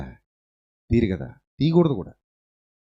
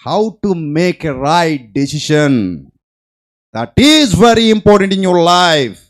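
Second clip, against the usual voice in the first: very slow, each word weighted; slow solemn emphasis; 2 semitones higher, 5 dB louder, much slower than usual. Acted. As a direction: spell out the lesson solemnly. Slow emphatic key lesson. (నెమ్మదిగా గంభీరంగా)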